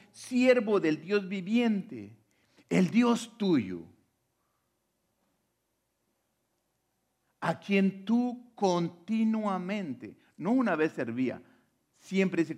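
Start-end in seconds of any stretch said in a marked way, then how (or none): 0.1-10.2 high, loud, drawn-out calling; imitated sad shout. King calling to Daniel in the lions' den, imitated sad shout. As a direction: call out slowly in a raised, imploring voice. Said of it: "le gritaba a Daniel con voz triste".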